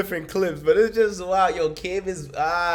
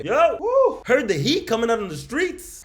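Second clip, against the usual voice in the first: higher-pitched, hyped-up imitation of a street greeting; mock excited greeting; 5 semitones higher than usual. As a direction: play up a neighbour calling out excitedly. Acts out neighbour's invitation on the block.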